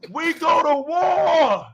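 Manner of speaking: a sorry attempt at a Viking. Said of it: "put your Viking voice on".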